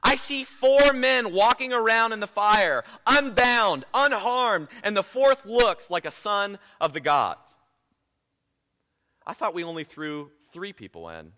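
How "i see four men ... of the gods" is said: 1 amazed announcement. Retold or imitated. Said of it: "he says".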